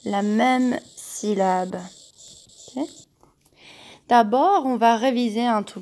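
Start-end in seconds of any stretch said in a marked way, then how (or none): 0.1-1.8 même drawn out slowly; la même syllabe with même held long and clear; stress on même. Shown as a demonstration. Teacher slowly stressing même for young pupils.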